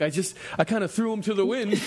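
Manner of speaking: sheepish giggle of the confession; laughing Joe. Retold or imitated. Joe admits throwing clothes away, laughing.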